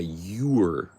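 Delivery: "You're" stretched as "yoo-er"; contraction "you're". Shown as a demonstration. Teaching the right word, "You're" drawn out as "yoo-er". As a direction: draw out "You're" with a clear oo glide. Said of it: "And then you say".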